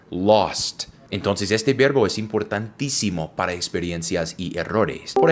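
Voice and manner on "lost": "Lost" with an open o; teacher modelling "Lost" with an open o; model pronunciation. Shown as a demonstration. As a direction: say "Lost" crisply. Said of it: "L O S T".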